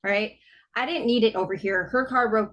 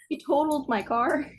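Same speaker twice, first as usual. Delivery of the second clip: higher, rising on the car; emphatic correction; 6 semitones higher than usual. Real, not acted. Correcting a friend's fender bender guess, emphatic. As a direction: correct them with raised pitch.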